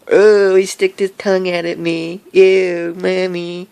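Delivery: high, loud whiny tattling, calling for mommy; mock offended kid. Vlogger plays a child telling mommy, whiny and high. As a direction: play a grossed-out little kid telling on him.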